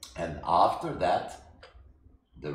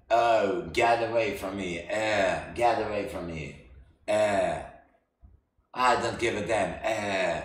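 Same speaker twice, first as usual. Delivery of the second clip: mock disgusted brush-off; 3 semitones higher, 6 dB louder than usual.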